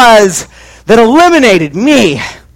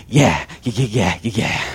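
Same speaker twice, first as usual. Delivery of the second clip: low, quiet, offhand yeahs; mumbled yeahs; 13 semitones lower, 10 dB quieter than usual. Retold or imitated. Cousin Clay brushing off the narrator, low mumbled yeahs. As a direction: toss off the yeahs without caring. Cousin Clay's dismissive reply.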